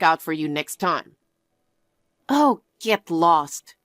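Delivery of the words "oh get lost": dismissive. Acted. Dismissing cheating fiancé.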